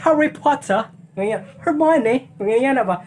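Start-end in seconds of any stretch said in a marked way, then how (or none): 0.0-0.9 put-on British accent. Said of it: "isang accent na siya pagka-British". 1.6-2.3 put-on British accent. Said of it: "isang accent na siya pagka-British".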